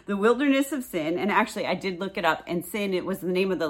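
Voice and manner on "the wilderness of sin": amused repeat. Shown as a demonstration. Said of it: "whatever that was".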